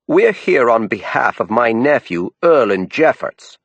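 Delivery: earnest Down East appeal; aunt pleading in Down East; Down East accent. A narrator's reading. Lou Bates dialogue.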